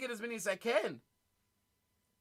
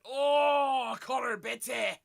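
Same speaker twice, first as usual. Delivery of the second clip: loud sudden cry at a big hit; loud, shocked call of the player's name; startled shout; 2 semitones higher, 4 dB louder, much slower than usual. Real, not acted. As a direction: blurt it out as the hit lands. Big hit, foul play check.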